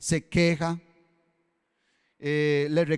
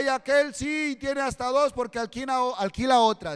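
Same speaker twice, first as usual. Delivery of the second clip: raised, aggrieved whining to the Lord; envious complaint; 6 semitones higher than usual. Retold or imitated. Churchgoer complaining to God about others' houses, raised and aggrieved. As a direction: grumble that the wicked get ahead.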